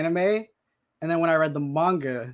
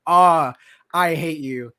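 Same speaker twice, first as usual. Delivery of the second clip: tearful hate; 6 dB louder, slower than usual. Retold or imitated. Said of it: "it's like".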